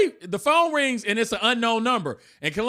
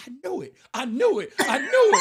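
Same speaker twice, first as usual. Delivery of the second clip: building accusation; 5 semitones higher, faster than usual. Retold or imitated. Wife repeats accusation, rising.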